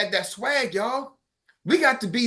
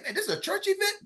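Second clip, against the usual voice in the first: surprised disbelief; 8 semitones higher, 7 dB quieter than usual. Retold or imitated. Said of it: "I'm like".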